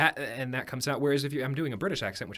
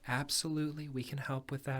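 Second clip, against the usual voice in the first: lightly acted soothing receptionist; very soft tone; 2 semitones higher than usual. Receptionist reassuring a nursing home caller, soft tone. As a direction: gently reassure the caller, a touch softer. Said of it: "I adopt a very soft tone".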